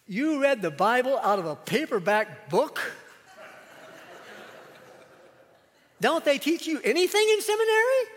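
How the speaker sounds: loud, high, incredulous scolding; retold furious outburst. Old parishioner scolding new pastor after sermon, angry shout. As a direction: hurl it at him in outrage. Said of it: "he was furious".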